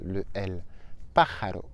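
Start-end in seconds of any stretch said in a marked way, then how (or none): 1.1-1.6 pájaro with the r softened toward an L; easy variant. Shown as a demonstration. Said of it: "vous allez fermer le L".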